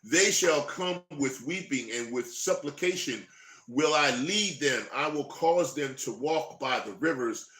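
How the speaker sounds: slow, solemn Bible reading; scripture reading. Acted. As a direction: read it out like a preacher. Reads scripture aloud.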